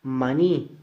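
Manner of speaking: "Maní" with NÍ leaned on; final-syllable stress. Shown as a demonstration. Teacher shows a word ending in I, stress on NÍ in "Maní". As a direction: put the force on the "ní" of "Maní". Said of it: "mayor fuerza de voz y termina en I".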